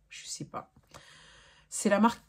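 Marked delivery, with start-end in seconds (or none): 0.1-0.7 whispered. Real, not acted. Trailing doubt, barely voiced.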